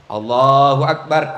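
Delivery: low, slow Allahu Akbar; demo takbir. Shown as a demonstration. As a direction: another low drawn takbir. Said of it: "ada yang begini". (takbir rendah perlahan)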